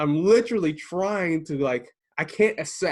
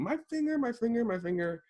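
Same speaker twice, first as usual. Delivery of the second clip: mock yelling; 9 semitones higher, 4 dB quieter than usual. Wife with crushed finger as retold by husband, mock yelling. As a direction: imitate a pained yell at reduced volume. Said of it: "she's now yelling".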